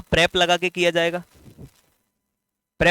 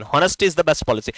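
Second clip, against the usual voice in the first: slow dictation; 3 semitones lower, much slower than usual. Shown as a demonstration. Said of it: "ये question".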